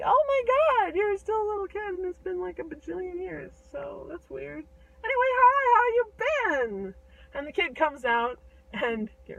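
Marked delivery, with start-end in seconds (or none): 0.0-7.0 high, gushing reunion greeting; excited, pitched well up; delighted giant. Acted. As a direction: squeal at seeing a long-lost friend. Giant reunited with little kid.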